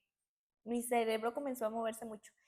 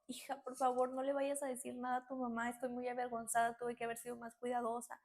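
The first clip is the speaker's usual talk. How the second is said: ordinary delivery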